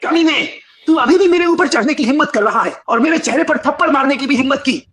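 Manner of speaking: angry outburst. Acted. Beaten man rages at attacker.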